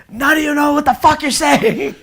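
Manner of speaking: high-pitched retold holler; acting out an exasperated yell; imitated yelling. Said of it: "yelling in English back to him".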